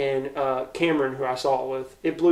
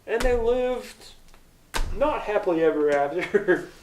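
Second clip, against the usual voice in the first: fairy-tale voice; 5 semitones higher than usual. Retold or imitated. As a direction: lift it like a fairy tale ending. Tied the story up to where it's like.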